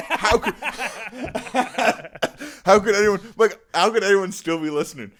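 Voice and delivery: high, loud, incredulous; laughing disbelief. Real, not acted. Teasing the remaining listeners, high and loud with disbelief. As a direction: marvel that anyone still listens.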